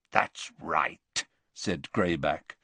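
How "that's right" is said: low, rasping beast of a man. A narrator's reading. Greyback confirming himself to Dumbledore, rasping. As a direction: rasp it low. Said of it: "a rasping bark of a voice".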